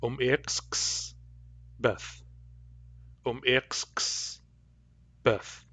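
Cayuga dialect um iksks, vowels dropped. Shown as a demonstration. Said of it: "In Cayuga dialect, I would say".

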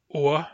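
wa said alone with a hard W; isolated syllable. Shown as a demonstration. Teacher isolating a syllable, clearly. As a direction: stress the lone wa. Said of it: "second syllable really is wa".

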